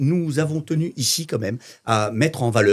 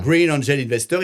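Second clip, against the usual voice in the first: Green Angel Investor said in English style; English accent; 3 semitones higher than usual. Shown as a demonstration. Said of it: "dis-le bien avec l'accent".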